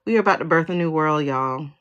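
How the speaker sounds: brisk, rushed news to friends; quick announcement. Real, not acted. Reader telling viewers of a new world, brisk. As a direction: say it quickly, dropping on the last word.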